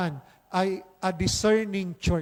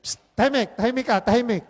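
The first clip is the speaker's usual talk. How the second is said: shushing the dog; 3 semitones higher, much faster than usual. Retold or imitated. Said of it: "Di sabi".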